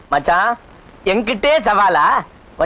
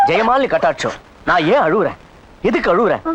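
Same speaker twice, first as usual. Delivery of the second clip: ordinary talk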